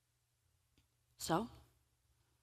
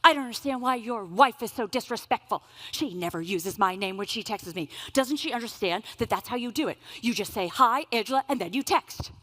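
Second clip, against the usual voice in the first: loud, scolding mother-in-law, pitched up at the start; indignant mother-in-law; 6 dB louder than usual. Retold or imitated. Retold mother-in-law loudly scolding her son Gerald. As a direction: play the offended elder lecturing her son.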